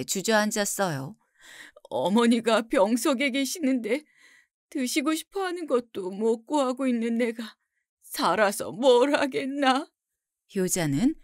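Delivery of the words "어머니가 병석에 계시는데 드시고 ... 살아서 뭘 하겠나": tearful lament in a put-on crying voice; acted wailing son. A narrator's reading. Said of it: "땅을 치며 통곡을 했어요".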